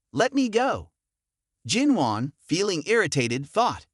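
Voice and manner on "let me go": shouting. A narrator's reading. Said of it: "The old man shouted".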